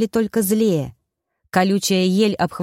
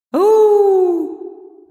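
high, loud spooky hoot; eerie howl; 13 semitones higher, 5 dB louder than usual. A narrator's reading. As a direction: howl from the dark woods. (жуткое высокое громкое «у-у-у» из леса)

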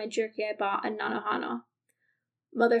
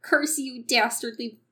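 put-on Minnesotan accent; 3 semitones higher, 4 dB louder, slower than usual. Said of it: "why do I wanna go Minnesotan suddenly".

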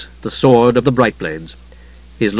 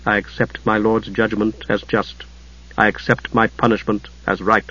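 steady; 4 semitones lower, 7 dB quieter than usual. A narrator's reading. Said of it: "Steele answered steadily".

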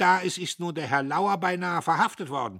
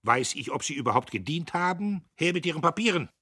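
laut und hoch, wütend herausgedonnert; donnernd; 2 semitones higher, 8 dB louder than usual. A narrator's reading. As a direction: wie ein Offizier auf dem Kasernenhof donnern. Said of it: "Der Major donnerte". (der Major donnert Diederich zornig an)

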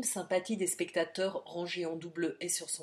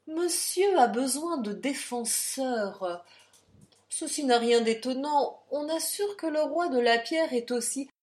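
sneering taunt; 6 semitones higher, 7 dB louder than usual. Acted. The count provokes Jean before the crowd, loud sneering taunt. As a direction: goad him in front of everyone.

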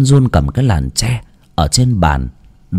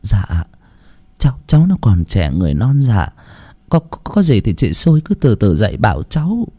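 pleading. Acted. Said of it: "khẩn khoản".

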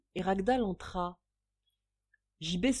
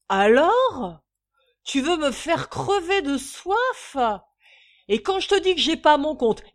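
much higher, loud outraged bluster; indignant drunk; 6 semitones higher, 10 dB louder than usual. A narrator's reading. Drunk father ranting at his wife, indignant and loud. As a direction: protest like he's been insulted.

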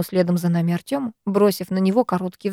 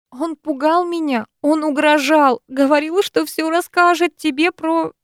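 tearful pleading; 8 semitones higher than usual. Acted.

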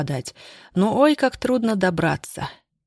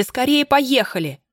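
higher, slower, stretched urgent plea on скорее; frantic urgency; 6 semitones higher than usual. Acted. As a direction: beg him frantically to hurry. Escaping, begging driver to go. (отчаянная мольба)

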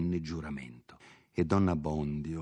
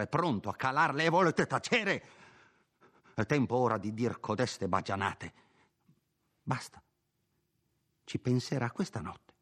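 higher, lecturing servant; scolding housekeeper; 4 semitones higher than usual. Acted. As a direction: scold him for never standing up. Perpetua lectures then soothes.

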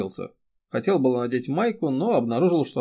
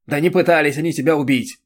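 loud barked denial; a loud snapping rebuttal; barked retort; 4 semitones higher, 8 dB louder than usual. A narrator's reading. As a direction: bark it back at her. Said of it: "рявкнул Сап".

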